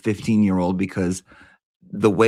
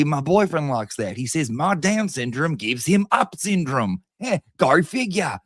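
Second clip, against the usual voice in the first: mocking her rant; 6 semitones higher than usual. Mock impression of her ranting.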